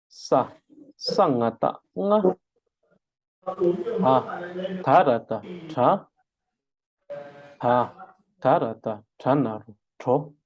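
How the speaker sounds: syllable-by-syllable spelling for the class to repeat. Shown as a demonstration. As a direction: spell "Ta, tarata, tra" in clear separate beats. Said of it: "đánh vần theo thầy".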